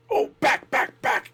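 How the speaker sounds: high-pitched, alarmed little yelp of words; acted startled retreat. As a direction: play someone hastily backing out, voice jumping up. Startled figure peeks in, retreats.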